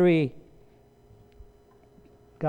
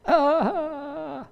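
put-on kid's cry; 10 semitones higher than usual. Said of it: "he didn't know it".

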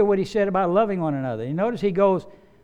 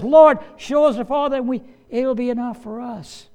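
anxious plea; 7 semitones higher, 5 dB louder than usual. Acted. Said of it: "All eleven of these men are feeling like Peter".

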